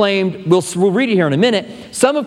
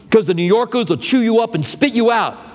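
put-on New York accent, pitched up; 4 semitones higher than usual. Shown as a demonstration. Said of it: "Did you like my New York accent there?".

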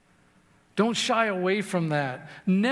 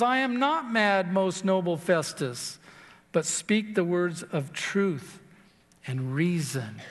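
humble reply; 2 semitones lower, slower than usual. Acted. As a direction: answer humbly, easing down word by word. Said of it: "Paul in his humility says".

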